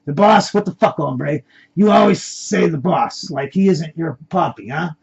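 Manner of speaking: angry comeback, loudest at the start; blaring back. Acted. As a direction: argue back loudly and indignantly. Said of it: "The Spanish accent man blaring back".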